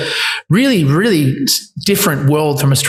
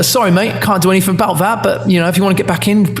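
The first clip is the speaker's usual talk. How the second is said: quick imitated English accent; put-on English accent, brisk brush-off; 2 semitones higher than usual. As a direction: mimic an English producer, talking fast. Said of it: "I just did an English accent".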